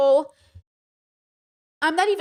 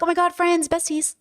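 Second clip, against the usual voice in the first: mock gushing friend; 5 semitones higher than usual. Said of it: "we could have been like".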